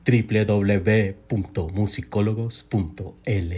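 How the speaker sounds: slow, low, smooth heartthrob delivery; leading man voice. Pretend. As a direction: croon the web address like a romantic lead. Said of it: "con su voz de galán". (voz de galán lenta y grave)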